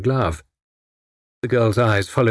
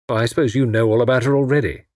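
sarcastic. Acted. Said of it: "said Tommy with sarcasm".

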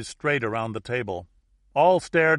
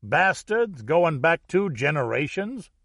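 slow, higher New Orleans outburst; indignant Louisiana yell; 6 semitones higher, 4 dB louder, slower than usual. A narrator's reading. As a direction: draw out the outraged question. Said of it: "yelled the American from New Orleans".

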